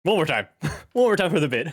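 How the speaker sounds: loud, high, breaking into laughter; laughing plea. Real, not acted. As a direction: push it out loudly between laughs. Laughing while repeating the bit.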